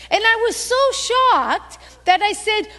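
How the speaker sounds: normal talking voice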